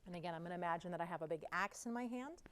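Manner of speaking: usual speaking voice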